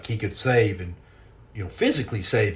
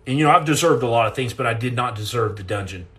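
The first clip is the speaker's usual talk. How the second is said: emphatic plea; 4 dB louder, faster than usual. Retold or imitated. Retelling his plea in the cell.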